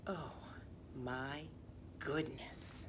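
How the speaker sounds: breathless stunned whisper. Acted. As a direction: whisper in shock. Reader stunned after gibberish.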